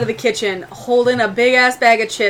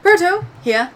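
robot pilot. Acted. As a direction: answer like a dutiful droid.

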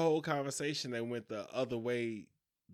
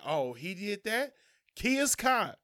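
cheering it on, higher and mocking; mock hype reaction; 5 semitones higher than usual. Friend mocking people who cheer on violence. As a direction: egg the guy on sarcastically.

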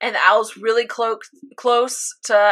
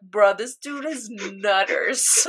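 slow, drawn-out disbelief; incredulous, slowed-down reaction; stunned disbelief; 2 semitones lower, 5 dB quieter, slower than usual. Retold or imitated. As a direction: stretch the words out in amazement.

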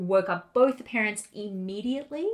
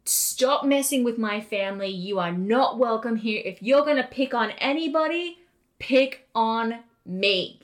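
louder, firm imitation of a dad challenging a ghost; 3 semitones higher, 5 dB louder than usual. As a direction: stand up to the ghost like a fed-up dad. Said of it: "He says in the loud dad voice".

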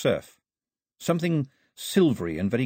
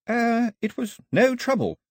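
put-on much higher, polite girl's voice; Daphne's voice; 13 semitones higher than usual. A narrator's reading. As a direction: voice young Daphne, politely flustered. Daphne replies.

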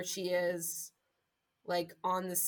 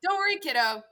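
cold mock comfort; 4 dB louder than usual. Mother answers coldly.

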